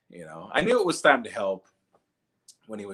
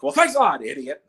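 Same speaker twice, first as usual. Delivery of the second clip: mock grumpy old man; 5 semitones higher, 7 dB louder than usual. Old man snapping at him.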